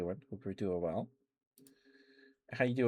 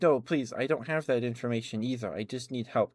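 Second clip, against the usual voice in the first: higher, mildly acted plea; pleading; 4 semitones higher, 4 dB louder than usual. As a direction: retell it as an insistent plea for help. Pleading with desk lady in dream.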